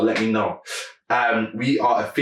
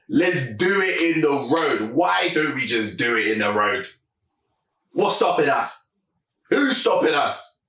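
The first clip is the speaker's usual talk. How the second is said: higher-pitched, insistent acting out of the songwriter; mock-serious push, pitch raised; not playing around; 4 semitones higher than usual. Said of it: "They weren't playing around".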